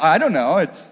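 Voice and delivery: low, sheepish dog voice; clueless dog's reply. Retold or imitated. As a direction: drop low after the owner's outburst. Dog answers the exasperated owner.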